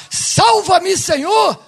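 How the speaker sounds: loud, high cry for help; Pedro. Acted. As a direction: call out like a man starting to sink. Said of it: "Até o fato de Pedro falar". (clamor gritado por socorro)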